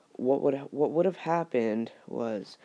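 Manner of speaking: stumbling over the words; stuttering. Real, not acted. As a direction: restart the phrase mid-word. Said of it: "I just apologize for the stuttering".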